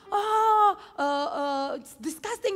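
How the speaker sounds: high, loud disgusted outburst; mock disgust. Rude woman disgusted at her seatmate eating, mock disgust. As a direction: act revolted, a bit hammed-up. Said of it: "Dia marah-marah".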